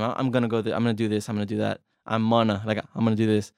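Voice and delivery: "gonna" swallowed into "I'm'na" and "I'munna"; casual reduced gonna. Shown as a demonstration. Teacher showing learners everyday English, slurred "gonna". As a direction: run "I'm gonna" together loosely and casually. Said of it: "we say it all the time".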